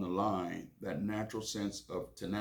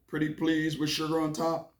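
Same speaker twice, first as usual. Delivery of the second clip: put-on higher, louder pleading child; whiny kid voice; 8 semitones higher, 5 dB louder than usual. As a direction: beg like a little boy wanting a cookie. Child Billy begs mom.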